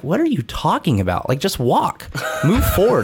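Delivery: lightly voiced wife, no patience for it; impatient wife. Wife on the phone telling her exhausted husband to keep walking, mock impatient. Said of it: "she's just like".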